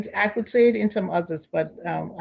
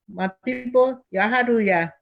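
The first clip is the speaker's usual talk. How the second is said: higher Liberian English greeting; 4 semitones higher than usual. Shown as a demonstration. Guest greets Liberian brothers and sisters, in Liberian English. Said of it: "say it in Liberian English".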